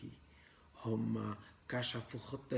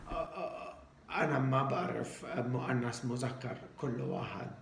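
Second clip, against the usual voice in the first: put-on broken Arabic foreign accent. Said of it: "إحنا لازم نحكي عربي مكسر".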